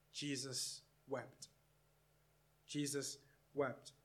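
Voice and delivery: low-key, slow and soft; hushed solemn. Real, not acted. Preacher reading to congregation that Jesus wept, hushed and solemn. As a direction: let the short verse fall softly, slowly.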